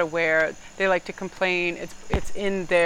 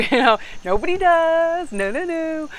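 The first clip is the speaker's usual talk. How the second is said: laughing; 10 semitones higher, 5 dB louder than usual. Real, not acted. Laughs at her own quote.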